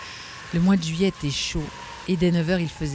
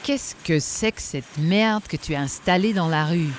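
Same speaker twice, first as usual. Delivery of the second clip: crier; 2 semitones higher, 4 dB louder than usual. Acted. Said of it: "cria Danglars en traversant".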